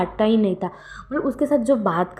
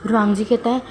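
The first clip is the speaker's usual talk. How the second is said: plain reading voice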